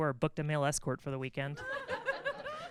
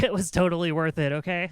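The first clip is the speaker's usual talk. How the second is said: a mock-dying, happy grin, louder; grinning through it; 8 dB louder than usual. Lying on the floor after the dough, grinning and laughing. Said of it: "a huge grin came over my face".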